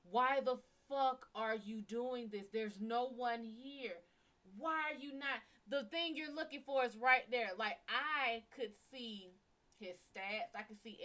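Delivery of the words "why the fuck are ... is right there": frustrated outburst. Retold or imitated. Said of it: "I was frustrated as hell".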